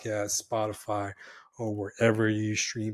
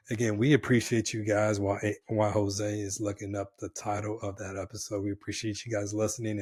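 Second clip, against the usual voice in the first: raspy voice. Real, not acted. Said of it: "sorry for the raspy voice".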